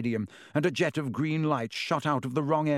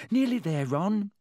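reassuring. Acted. Hermione soothing Ron on the way to Hagrid's. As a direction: coax him along gently.

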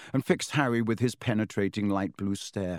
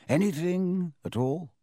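gentle; 7 semitones higher than usual. A narrator's reading. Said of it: "he said gently".

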